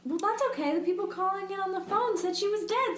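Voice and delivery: dripping sarcasm; sarcastic. Pretend. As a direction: play it breezy, as if nothing matters. Mock shrug about the 911 call.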